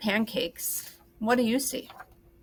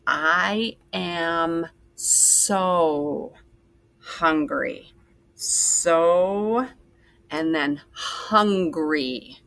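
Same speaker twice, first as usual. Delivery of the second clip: slow dictation; much slower than usual. Shown as a demonstration. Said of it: "sounding out the sentence while writing".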